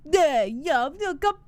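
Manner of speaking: drawn-out mock Bronx accent. Co-host playing a cannoli-loving local, mock Bronx accent. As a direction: ham up a Bronx local, stretching the words. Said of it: "now this retarded Bronx".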